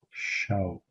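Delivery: "show" said like the British English word; "show" with a British vowel. Shown as a demonstration. Teacher likens Kurdish night to British show. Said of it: "the British pronunciation of the word show".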